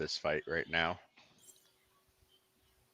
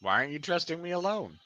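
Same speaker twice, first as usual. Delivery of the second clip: higher-pitched, playfully wounded protest; mock indignant protest; 6 semitones higher than usual. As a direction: protest your innocence in a high, put-upon voice. Playful protest at being distrusted.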